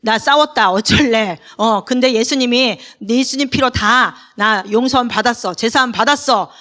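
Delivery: defiant retort. Retold or imitated. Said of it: "그렇게 할 수 있죠, 우리는".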